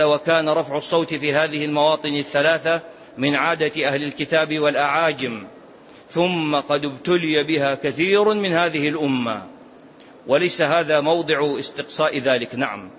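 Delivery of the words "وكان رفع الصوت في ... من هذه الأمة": lower-pitched, measured text reading; reading from a book. Real, not acted. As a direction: read the scholar's passage out evenly. Reads from the book. (قراءة من كتاب بنبرة منخفضة)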